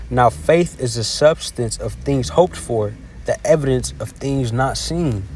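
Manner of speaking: slow, deliberate Bible reading; measured, unhurried recitation of a verse; scripture reading. Acted. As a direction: read it out slowly, phrase by phrase. Reads scripture aloud.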